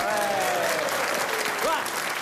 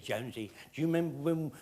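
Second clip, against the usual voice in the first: crooked smile; 6 semitones lower, 5 dB quieter than usual. Retold or imitated. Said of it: "with a crooked smile on his face".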